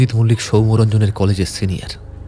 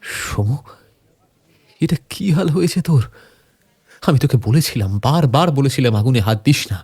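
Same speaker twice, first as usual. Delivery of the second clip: distressed pleading; 3 semitones higher than usual. Acted. Friend sees beaten friend in lockup.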